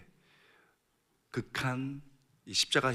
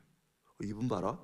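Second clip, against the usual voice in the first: dawning realization. Acted. Criminal suddenly realizing who Jesus is, mild amazement. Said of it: "깨달아지는 거예요".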